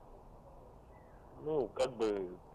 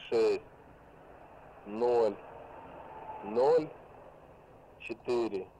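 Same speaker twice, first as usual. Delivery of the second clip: dictating; much slower than usual. Real, not acted. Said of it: "Повторяю".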